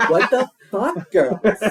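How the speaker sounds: angry mom yell; furious mom shout. Acted. Mom catching girls, shouting.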